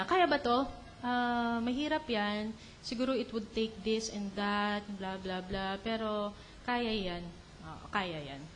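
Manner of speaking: put-on older, wiser self. Older person weighing a hard task, soft and measured. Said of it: "nung medyo matanda ka na".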